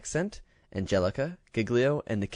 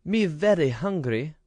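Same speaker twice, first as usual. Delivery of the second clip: put-on high, lisping toddler voice begging for a bun; a tiny child who can't say her G's; baby-talk little girl; 7 semitones higher than usual. A narrator's reading. Ragged little girl begs.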